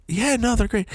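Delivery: high, half-hearted wife; unconvincing thanks; wife's lukewarm thanks. Retold or imitated. Wife voiced, flat thanks.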